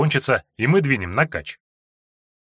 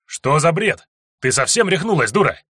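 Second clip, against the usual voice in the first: раздражённо; 5 semitones higher, 3 dB louder than usual. Acted. Том огрызается на кричащую девушку.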